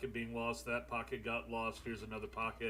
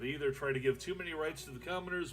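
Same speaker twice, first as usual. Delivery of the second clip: game text read-out. Acted. Reads game event text aloud.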